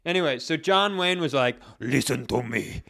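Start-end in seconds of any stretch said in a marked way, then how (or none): 1.8-2.8 low, mock Asian-accented Al Pacino growl; a lightly hammed-up Asian-accented Pacino. Retelling John Wayne for the podcast, a low mock Asian-accented Pacino. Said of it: "That was, like, Asian Al Pacino".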